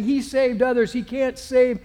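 loud, slow scornful jeering; mocking taunt. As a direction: sneer at him from below the cross. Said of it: "mocked him to one another".

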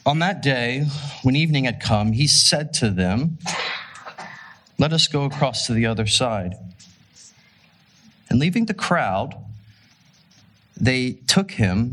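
measured reading aloud with long pauses; scripture reading. A narrator's reading. Preacher reading the Gospel to the congregation, measured scripture reading. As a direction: read the passage out phrase by phrase, deliberately.

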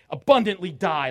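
"abundantly" punched loud; emphatic. Shown as a demonstration. Preacher explains the emphatic term, punching "abundantly". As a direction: hit "abundantly" hard, then drop on "die". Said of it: "Emphatic, like".

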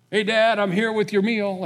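bright high greeting; a son proudly bringing dinner; eager son. Retold or imitated. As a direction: pitch up, cheerful and keen. Esau arrives with the meal.

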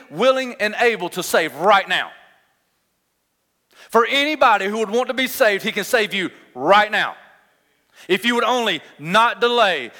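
emphatic, driving pulpit delivery; urgent preaching. Real, not acted. Preacher telling folks there is good news, with emphatic urgency. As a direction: press each phrase home to the congregation.

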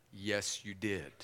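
low, soft, knowing reply; quiet correction. Retold or imitated. The Lord answers Sarah's denial, quiet low correction. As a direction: drop the voice and gently insist.

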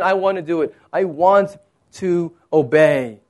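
lightly acted, even-voiced readiness; understated, deliberate eagerness to obey; willing obedience. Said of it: "obedience was very natural for him".

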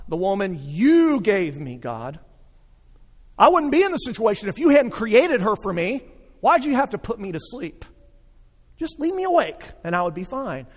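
a hint of a whiny Adam pointing the finger; lightly acted, blaming excuses; complaining Adam.

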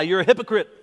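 lightly voiced inner accuser; accusing lie. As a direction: voice the lie that undermines belief. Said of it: "What about this lie?".

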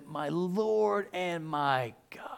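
slow reverent whisper; awed whisper. Acted. Thomas confessing to Jesus in a slow whisper. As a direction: breathe it out in awe.

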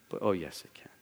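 soft, breathy emphasis; preacher whispering a warning; whispered warning. Real, not acted. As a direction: hush it like a secret warning.

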